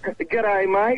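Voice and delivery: American trying an Australian accent; Aussie accent. Shown as a demonstration. Guest copying the radio host's greeting, attempted Aussie accent. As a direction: have a light go at an Aussie greeting. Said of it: "Hey, that's not bad".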